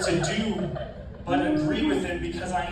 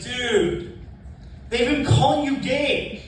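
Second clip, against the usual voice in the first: laughing reveal; 10 semitones higher, 7 dB louder, slower than usual. Retold or imitated. Coworker laughing reveals meaning.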